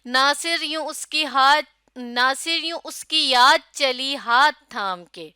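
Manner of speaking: slow, song-like verse reading; rhythmic recitation. Shown as a demonstration. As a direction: recite with a steady lilt. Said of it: "بالکل جیسے کہ ایک گیت ہوتا ہے". (لے کے ساتھ شعر پڑھنا)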